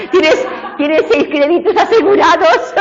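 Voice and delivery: laughing through a joke, pitch way up. Real, not acted. Teacher joking with a student about easy credits, laughing. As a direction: chuckle the words out, delighted.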